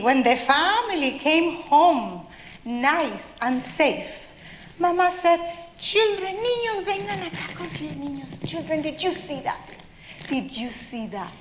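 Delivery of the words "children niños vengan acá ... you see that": put-on gather the children in gently; motherly calling. Mama mouse calls her children once safe home, motherly calling.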